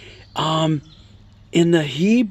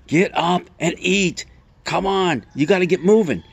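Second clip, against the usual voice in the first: higher-pitched coaxing angel; urging angel; 5 semitones higher than usual. Retold or imitated. Angel rousing Elijah a second time, higher-pitched urging. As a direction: prod a tired sleeper along. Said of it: "Again, the angel comes".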